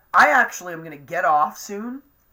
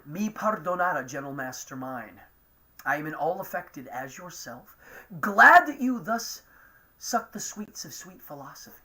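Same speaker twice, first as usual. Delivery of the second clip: reciting verse from memory, lightly theatrical; half-remembered stage monologue, with a long stretched pause; Shakespeare recitation. Acted. Reciting Shakespeare to the live chat, lightly theatrical. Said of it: "that's a really great monologue".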